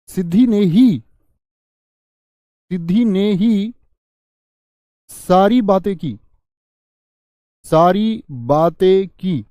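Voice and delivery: emphatic classroom demo of ही; stress on ही. Shown as a demonstration. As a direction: repeat सिद्धि ने ही slowly, punching ही. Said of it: "तो जोर दे दिया वाक्य में".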